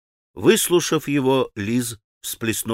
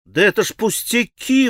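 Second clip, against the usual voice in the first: higher protest; exclaimed; 10 semitones higher than usual. Acted. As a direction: brush it off reassuringly. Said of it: "воскликнул Алёша".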